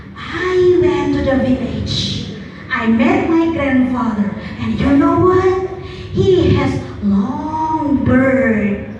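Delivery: beard said like bird, slow and drawn out; mispronounced beard. Shown as a demonstration. Teacher demonstrates a slow mispronunciation of beard to the speech contestants. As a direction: demo the slip, stretching beard so it sounds like bird. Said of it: "And you want to say like this".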